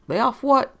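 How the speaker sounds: sharp, rising indignant question. Acted. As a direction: throw it back at him, affronted. Rigotti bristling at accusation.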